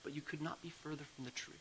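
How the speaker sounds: soft fatherly comfort fading to a whisper; soft and kind. Retold or imitated. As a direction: gently reassure a frightened child. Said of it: "very softly and kindly".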